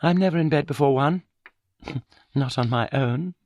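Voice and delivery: bitter little laugh at herself; cruel self-mocking laugh. A narrator's reading. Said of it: "She laughed cruelly at herself".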